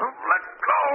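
breathless high whisper. Acted. Madman gloating over his victim.

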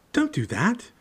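high, loud alarmed cry; shouting at the owl. Acted. Harry yells at the owl savaging the coat, high and loud. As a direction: yell to stop the owl.

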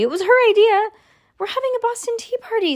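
put-on very high child character voices; high-pitched kid caught out; defensive kids. A narrator's reading. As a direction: pipe up with an excuse. Children explain themselves to dad.

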